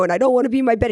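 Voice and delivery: put-on high, whiny little-girl voice; whiny toddler. Toddler begging mom at bedtime, high whiny voice. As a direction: whimper it like a tired kid who won't sleep. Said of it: "she'd be like".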